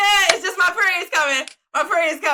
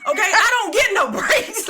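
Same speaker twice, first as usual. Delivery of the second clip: laughing complaint; 4 semitones higher, slower than usual. Real, not acted. Laughing rant about her period.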